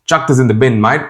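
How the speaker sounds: lightly Australian-flavoured phrase; casual hint of an Australian accent; Aussie slang. Shown as a demonstration. YouTuber showing how Australians say it, light Aussie accent. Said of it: "here in Australia, they use chuck".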